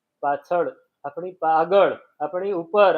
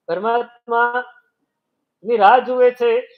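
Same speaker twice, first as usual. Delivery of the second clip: very slow, higher and louder, stretched; slow, drawn-out, louder, higher line; drawn-out awe; 5 semitones higher, 7 dB louder, much slower than usual. Acted. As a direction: draw each word out longingly.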